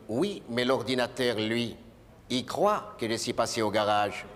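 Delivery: hint at it knowingly; knowing insinuation. Retold or imitated. A hint of a knowing driver. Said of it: "d'un air de sous-entendu".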